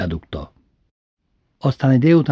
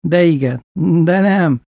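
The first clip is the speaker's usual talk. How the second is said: higher, urgent granny voice; pleading grandmother; 7 semitones higher, 4 dB louder than usual. Retold or imitated. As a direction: threaten to catch pneumonia. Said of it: "Ez hatott".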